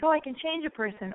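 put-on high, hopeful girlish voice; mock-naive girl talking herself into it. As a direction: play the smitten young girl kidding herself. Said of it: "we think".

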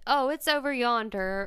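casual Southern twang; Southern accent. Shown as a demonstration. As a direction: demonstrate everyday Southern speech. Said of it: "what's a Southern thing".

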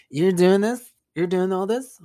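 loud, high rising questions; amazed drunk girl. Retold or imitated. Drunk girl marvels at painter's work, high imitated surprise. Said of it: "And she's like".

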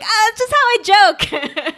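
high, slow mocking imitation; imitated coworker's excuse. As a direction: drag it out in a put-on voice.

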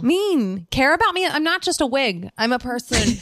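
high, whiny mock offense; mock hurt whine. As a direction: pout like a wounded diva.

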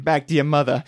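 bad New England accent. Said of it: "with a fucking horrible, implaceable accent".

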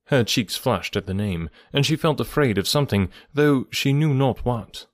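measured classic-novel narration; story narration. A narrator's reading. Narrator reading Emma's final chapters to listeners, measured storytelling. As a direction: read the novel aloud with deliberate pauses.

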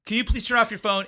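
a hint of an irritated host hushing the room; mild mock scold. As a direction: ask them to shut their phone off, a touch annoyed. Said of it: "she's going".

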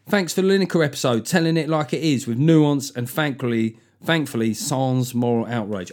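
light mock Cockney read. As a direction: read it as a Cockney, half-hearted. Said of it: "J L B sounds like a Cockney".

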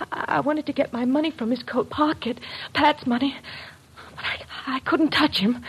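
quiet shaken account; hushed confession. Acted. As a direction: drop the voice and falter. Confessing, can't touch the body.

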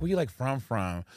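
mock prying question, low final FROM; nosy questioner. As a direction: press the doubled FROM, dropping the last one. Mimics nosy questioner asking origin.

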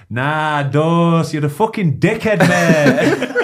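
put-on loud broad northern English accent, swearing. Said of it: "in his broad northern accent and goes".

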